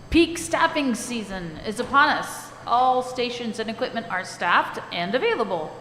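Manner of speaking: clear, firm reading-aloud voice; teacher voice. Shown as a demonstration. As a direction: read it out like a teacher to the class. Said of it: "I'm gonna put on my teacher voice".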